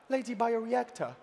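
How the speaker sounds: a hint of toned, nuanced British; lightly put-on British accent. Contestant explaining her name to the crowd, mock British accent. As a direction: introduce yourself in mock-refined British English. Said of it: "with a very toned and nuanced accent".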